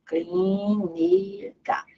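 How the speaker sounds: very slow Clínica, soft, rising at the end; slow soft syllable demo; drawn out. Shown as a demonstration. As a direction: stretch Clínica out slowly and softly. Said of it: "Tá aqui o acento".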